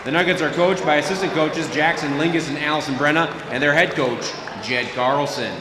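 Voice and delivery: PA announcer over the gym speakers; echoing stadium announcer. Acted. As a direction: read the lineup like an arena PA. PA announcer introduces visiting starters.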